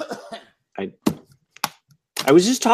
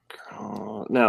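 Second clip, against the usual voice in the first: laggy video call; 3 semitones lower, 9 dB quieter than usual. Real, not acted. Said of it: "I, I lost you there".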